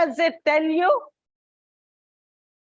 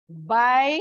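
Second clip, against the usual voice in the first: "Biology" broken into bi, o, lo, gy; syllable by syllable; 2 semitones lower than usual. Shown as a demonstration. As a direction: sound out "Biology" with long gaps between syllables. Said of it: "It comes before O".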